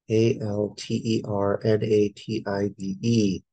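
"A L T E R N A T I V E" spelled out one letter at a time. Shown as a demonstration. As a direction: read "A L T E R N A T I V E" as separate letters.

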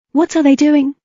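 high, anxious question; scared whisper question. Acted. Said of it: "as she grasped her blade tight".

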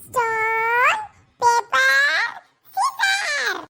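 shouting in frustration at losing the game. Real, not acted. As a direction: yell it as you lose. Losing stone paper scissors game.

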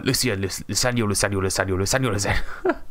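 Luciano rattled off over and over; stumbling start, then Luciano repeated in a rolling string; tongue-twister repetition. Real, not acted. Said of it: "Tongue twister right there".

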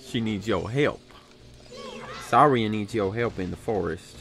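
slow mock Southern drawl; impression slipping into a Southern accent. Mimicking friend's Navi plea for help, Southern accent. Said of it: "I turned Southern".

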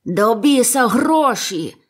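slow, high, loud curse; angry shout. A narrator's reading. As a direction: drag out the curse in fury. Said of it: "закричав сліпий". (лютий протяжний крик)

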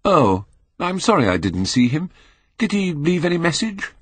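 Dorian voice. Acted. Dorian feigns regret.

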